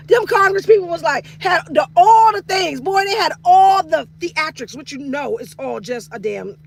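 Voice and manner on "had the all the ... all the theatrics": mock shout. Mocking Congress theatrics.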